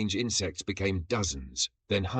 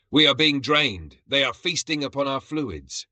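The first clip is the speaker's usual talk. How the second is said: higher, loud dying lament; melodramatic despair; 6 semitones higher, 4 dB louder than usual. A narrator's reading. Fallen warrior in a puddle, higher melodramatic despair. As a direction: moan it like a doomed hero.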